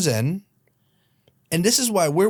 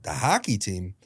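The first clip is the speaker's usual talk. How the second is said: lower-pitched, puzzled echo of HOCKEY TEAM; confused; 4 semitones lower, 4 dB quieter than usual. Retold or imitated. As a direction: echo it back baffled, pitched down. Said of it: "I'm legitimately confused".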